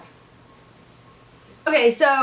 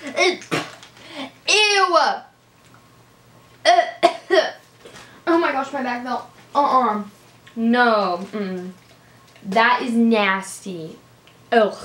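eating gross jelly beans; slower than usual. Real, not acted. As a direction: mouth full, chewing a nasty bean. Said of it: "I, like, bit into it".

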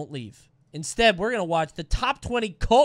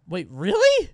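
ordinary delivery

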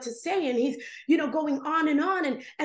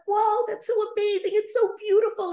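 higher, louder awed gush; blown away; 7 semitones higher, 5 dB louder than usual. Retold or imitated. Hearing Jesus share his plans, blown away. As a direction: marvel out loud, utterly amazed. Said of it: "I'm just blown away".

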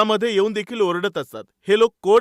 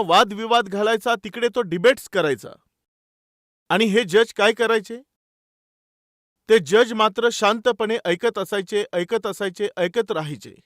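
ordinary delivery

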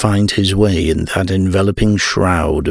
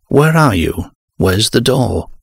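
higher-pitched anxious questions; urgent calling; 3 semitones higher than usual. Acted. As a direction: call out for companions lost in the dark. Lost in darkness during an earthquake.

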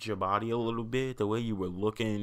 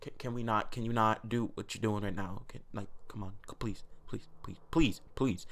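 mock pleading; 5 dB quieter than usual. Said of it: "the way you moved your body".

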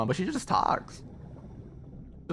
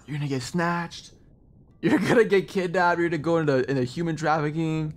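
panicky parents; 3 semitones higher than usual. Retold or imitated. Son imitating his parents' panic about Japan, mock worried. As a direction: rattle off the dangers like a fretting parent.

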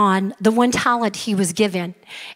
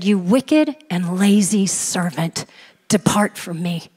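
harsh rebuke; 4 semitones lower than usual. Retold or imitated. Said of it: "was a little more harsh".

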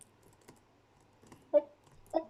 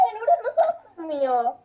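whiny frustration; 4 semitones higher than usual. Real, not acted. Frustrated, failing jump.

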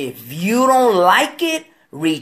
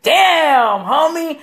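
impressed exclamation; 10 semitones higher, 4 dB louder, much slower than usual. Retold or imitated. Retelling a friend's reaction.

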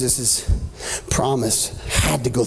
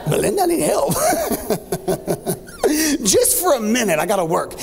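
desperate plea; 12 semitones higher than usual. Retold or imitated. Dad calls mom for help.

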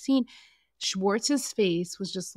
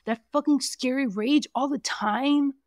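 higher and louder whiny mock of a self-pitying man; mocking Sandoval; 4 semitones higher, 3 dB louder than usual. Host mocks Sandoval complaining about the rage, whiny and higher.

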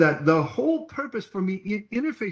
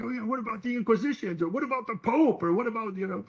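mocking skeptic; 7 semitones higher than usual. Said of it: "they're like".

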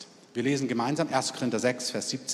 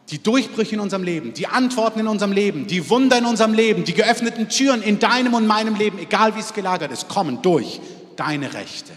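building preaching; 4 semitones higher, 4 dB louder than usual. Real, not acted.

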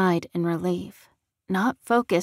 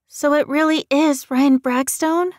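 high, louder woman's voice in disbelief; shocked woman; 8 semitones higher, 7 dB louder than usual. A narrator's reading. Woman in the car hearing bad news, shocked question. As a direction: ask it stunned, a woman's voice pitched up.

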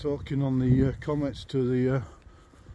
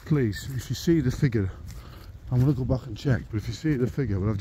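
urgent plea; 5 dB louder than usual. Real, not acted.

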